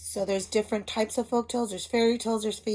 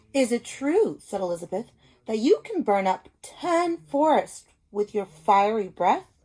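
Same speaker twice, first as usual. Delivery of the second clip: mild coaxing princess; 5 dB louder than usual. Acted. Elizabeth flatters the dragon.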